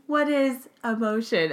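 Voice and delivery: flat robotic monotone. Acted. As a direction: speak like an emotionless robot. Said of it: "in my robot voice".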